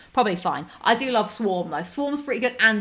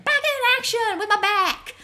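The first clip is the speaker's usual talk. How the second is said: laughing; 12 semitones higher than usual. Real, not acted. Pun on own back, laughing.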